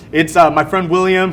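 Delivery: with a pause before my friend William; hesitant ironic answer. Shown as a demonstration. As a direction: drag out the uh, then deliver William wryly. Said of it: "But after this moment, I answered".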